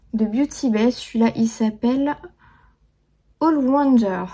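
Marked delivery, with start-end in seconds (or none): 3.4-4.3 English name in a French accent. Real, not acted. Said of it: "Désolée pour mon accent anglais". (anglais avec accent français)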